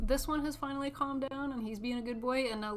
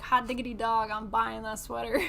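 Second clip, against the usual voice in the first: louder, gleeful; thrilled about a sweater; excited; 7 dB louder than usual. Retold or imitated. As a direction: blurt it with glee. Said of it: "so I was like".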